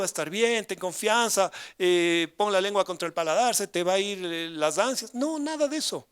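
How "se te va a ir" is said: normal talking voice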